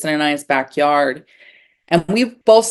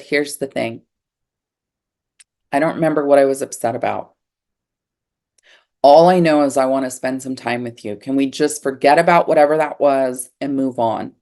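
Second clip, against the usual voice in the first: calm sincere; 4 semitones lower than usual. Retold or imitated. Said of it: "I said".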